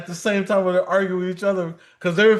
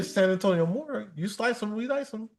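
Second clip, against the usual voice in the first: a softer, deadpan morgue answering line; mock morgue greeting; 2 semitones higher, 7 dB quieter than usual. Pretending to answer scam callers as a morgue, softer and deadpan. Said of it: "I'll say".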